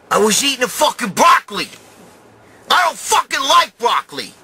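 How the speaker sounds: outraged yelling about broccoli; horrified rant. Real, not acted. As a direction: yell it out in real disgust. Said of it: "Dude, I'm horrified".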